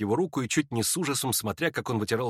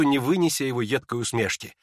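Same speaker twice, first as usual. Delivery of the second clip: usual speaking voice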